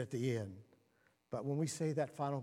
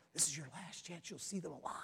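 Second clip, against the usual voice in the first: inner voice of God; 8 dB quieter than usual. Pretend.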